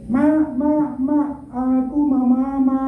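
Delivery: mild whimpering plea for mama, drawn out; crying child. Retold or imitated. Preacher voicing a child left behind, mild mock whimper. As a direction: lightly play the small boy crying for his mother. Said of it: "nangis lagi dia".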